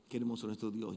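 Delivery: soft reverent echo; hushed praise. Acted. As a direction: breathe it out in awe.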